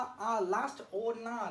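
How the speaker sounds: slow ओना with weight on ना; teacher stretching ओना's stressed ना; stressed last syllable. Shown as a demonstration. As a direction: lean slowly into the ना of ओना. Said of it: "pressure डाले".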